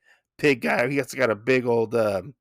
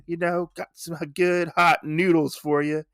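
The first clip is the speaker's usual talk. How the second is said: pushy street vendor, higher and fast; noodle vendor; 5 semitones higher than usual. Retold or imitated. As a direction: hawk noodles like an eager cat vendor. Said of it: "He's like".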